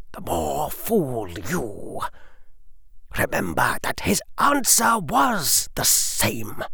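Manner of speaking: high, hushed sneering nobleman; condescending lord, softly menacing; cold aristocrat. A narrator's reading. Lucius warns the council.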